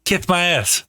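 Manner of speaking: high, lisping boxer impression; Mike Tyson. Man egging on his friend, high lisped boxer impression. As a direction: pitch it high and lisp the s sounds. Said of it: "doing that Mike Tyson impression".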